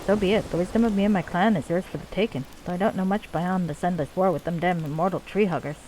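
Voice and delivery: put-on lightly done Scottish accent for a dwarf leader; bad Scottish accent. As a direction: play the dwarven chief with a rough-and-ready Scottish accent. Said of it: "my really bad Scottish accent".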